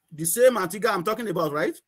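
ordinary delivery

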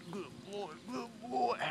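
soft hushed praise; quiet praise. Real, not acted. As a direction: praise him under your breath.

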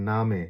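নামে as "naa-may", final e sounded; German pronunciation. Shown as a demonstration. Teacher giving the German for name, German pronunciation. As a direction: say নামে with a long open a. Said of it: "German ভাষা হচ্ছে".

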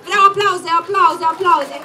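loud, rallying call for applause. Real, not acted. Host calling the crowd to applaud, loud and rallying.

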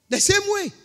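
pleading echo. Acted. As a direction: echo the plea up high, like a beggar. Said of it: "also pleaded with him".

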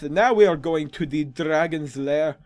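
put-on accent with half-successful rolled R's; attempted rolled R's. Player heads to the Dragon's Lair, attempting rolled R's. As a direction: try to roll the R's and not quite manage it. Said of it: "I am having trouble rolling my R's properly".

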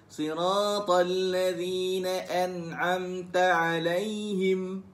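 chanted an'amta with throaty ain in ʕalaihim; Arab-style recitation. Shown as a demonstration. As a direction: recite alaihim the way Arabs say it. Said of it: "Kita dengar macam Arab kata him". (bacaan gaya Arab, ʕalaihim dari kerongkong)

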